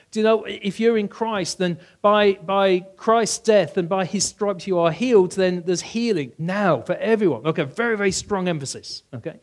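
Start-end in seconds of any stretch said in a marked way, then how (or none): 0.1-7.5 confident preacher. Retold or imitated. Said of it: "Those with a strong emphasis go".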